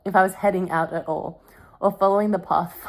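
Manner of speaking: reading a novel aloud in a storytelling voice. Acted. Vlogger reading Twilight aloud to her camera, storytelling.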